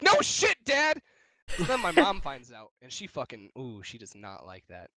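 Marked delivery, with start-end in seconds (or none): 0.0-1.0 higher, louder mock snap at dad; retold exasperated retort. Kid snapping back at his dad, hammed-up exasperation. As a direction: throw it back at him, fed up. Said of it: "And I'm like".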